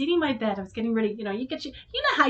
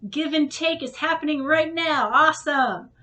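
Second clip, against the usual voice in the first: higher, brighter-pitched, eager; hopeful excitement; 5 semitones higher, 4 dB louder than usual. Retold or imitated. Recalling her hopes for the screen door, eager and higher. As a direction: pump yourself up, half-mock.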